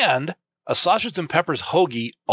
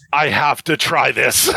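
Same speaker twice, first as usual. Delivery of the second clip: excited; slower than usual. Retold or imitated. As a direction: blurt it out eagerly. Quoting own eager thought.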